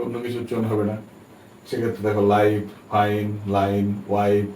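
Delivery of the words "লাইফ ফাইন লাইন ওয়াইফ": লাইফ, ফাইন, লাইন, ওয়াইফ each with an "eye" vowel; long i, silent e. Shown as a demonstration. Teacher recapping the rule, লাইফ, ফাইন, লাইন, ওয়াইফ pronounced with "eye". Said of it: "আই উচ্চারণ হবে".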